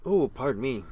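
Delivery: through a big yawn; mid-yawn apology. Real, not acted. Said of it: "Big stretchy yawns".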